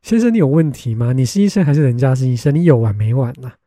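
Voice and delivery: mock scolding her stubborn brother; loud incredulous sarcasm; exasperated retort. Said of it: "我想说".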